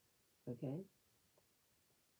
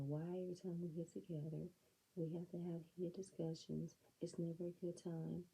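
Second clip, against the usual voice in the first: a hint of a put-upon Sharice; mock Sharice; 3 semitones higher than usual. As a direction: lightly imitate her whiny complaint. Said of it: "She's thinking she's gonna say".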